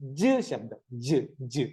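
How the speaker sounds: low, isolated "ജ്", a j with a short neutral vowel; letter sound ജ്. Shown as a demonstration. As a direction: say "ജ്" as a phonics sound, dropped in pitch. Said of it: "ജെയുടെ ശബ്ദം".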